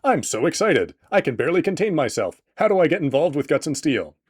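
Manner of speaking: mock excited viewer. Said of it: "I can hear you asking through your screen".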